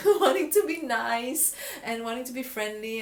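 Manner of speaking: put-on sweet girly voice. Shown as a demonstration. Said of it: "this is how I would sound sometimes when I speak with".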